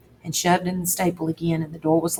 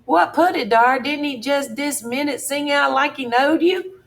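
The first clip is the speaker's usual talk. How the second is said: higher, excited Jim; Jim's voice; 8 semitones higher than usual. Acted. Jim insisting to Tom, higher and excited. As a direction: push back, astonished they ask.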